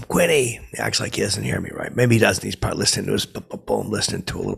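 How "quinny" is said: higher mock yell after him; calling out. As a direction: call after a friend who's ignoring you. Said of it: "I start yelling to him".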